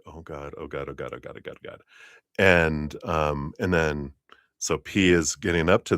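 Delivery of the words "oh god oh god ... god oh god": low, very soft repeated muttering; muttered dread. Retold or imitated. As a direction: imitate a bystander dreading a fight. Acting S dreading the coming fight.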